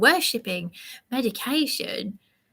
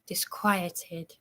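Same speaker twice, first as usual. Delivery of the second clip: hushed whispered biblical line; whispered scripture quote; 4 semitones lower, 6 dB quieter than usual. Retold or imitated. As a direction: whisper the Saviour's word like a secret. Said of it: "As Saviour said".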